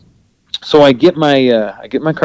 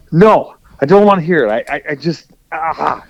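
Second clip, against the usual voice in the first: frustrated; 6 semitones higher than usual. Retold or imitated. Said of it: "you're so frustrated".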